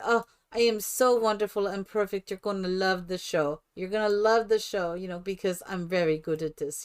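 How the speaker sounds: a touch of mock European diva accent; broken English accent, lightly imitated; mixed foreign accent. Introducing the show to residents, mixed foreign accent. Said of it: "my accent is a cross between".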